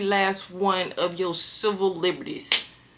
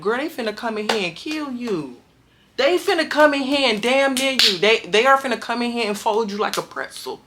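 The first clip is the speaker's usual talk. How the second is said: urgent inner warning; 3 semitones higher than usual. Retold or imitated. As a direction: warn yourself before it's too late. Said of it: "heard her scream that".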